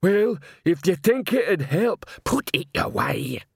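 slow, lumbering troll; dim troll voice. A narrator's reading. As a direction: plod through each word.

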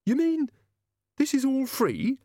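high, sharp demanding question. Acted. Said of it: "said Doreen's mother sharply".

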